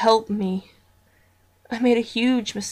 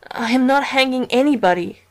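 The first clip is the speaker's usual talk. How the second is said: tearful; 3 semitones higher, 6 dB louder than usual. Acted. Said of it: "with tears rolling down my face".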